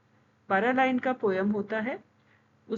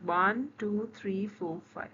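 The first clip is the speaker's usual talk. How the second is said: slow count fading much softer; counting beats; 2 semitones lower, 4 dB quieter, much slower than usual. Shown as a demonstration. Teacher counts out the five feet, voice fading. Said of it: "five of the two beat".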